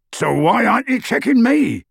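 high, strained protest in a put-on voice; Hagrid, panting. Hagrid struggling through the door, panting indignantly. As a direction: protest effortfully, pitched well up. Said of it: "panted Hagrid".

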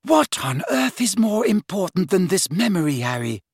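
high, exasperated question; incredulous. Acted. Hermione challenges Harry over the memory, incredulous. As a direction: press him in disbelief.

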